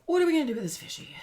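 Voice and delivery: high fast sing-song cooing; baby talk. Pretend. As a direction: coo at the little fish. Cooing at a fish.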